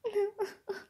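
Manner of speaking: high, short pretend sob; pretend crying. The speaker weeping in a game, pretend sobbing. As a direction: sob in little pulses, as play. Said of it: "perché piangi".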